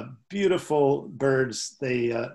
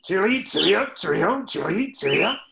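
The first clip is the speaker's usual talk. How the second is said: loud, high sing-song cheery up; mock tanager birdsong; robin with a sore throat; 5 semitones higher, 6 dB louder than usual. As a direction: chirp it like a hoarse robin. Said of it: "like a robin with a sore throat".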